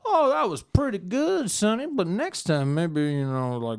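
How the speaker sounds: lightly voiced smug rich man; rich sponsor. Rich sponsor advising his fighter, lightly voiced smug rich man. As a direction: coax him like a greedy backer. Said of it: "his sponsor, you know, the rich guy, is like".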